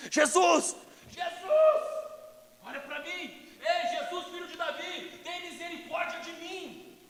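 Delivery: very high, softened cry; held-back shout. Retold or imitated. Bartimaeus begs Jesus, with sleeping children near, high hushed cry. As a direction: cry out but keep it hushed. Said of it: "Eu não vou gritar porque tem criança".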